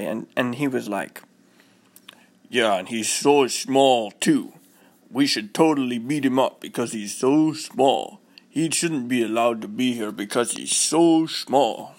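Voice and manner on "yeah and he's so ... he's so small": lightly voiced big bully boy. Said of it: "he was a big boy".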